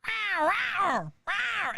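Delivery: high, yowling cat cry. Retold or imitated. Comic impersonating the girl at the glass, high cat yowl. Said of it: "you hear".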